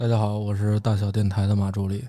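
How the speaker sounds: very low, shy, soft-spoken bass undertone. Visiting radio host gives a first self-introduction, in a very deep, quiet voice. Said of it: "为什么你说话声这么小呢".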